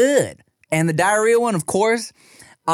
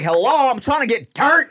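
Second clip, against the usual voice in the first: higher, sing-song and far off; mock whiny party guy; 10 semitones higher than usual. Ribbing himself over Disneyland crowds, mock whiny. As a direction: whine like a grown-up stuck among strollers. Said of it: "I'm like".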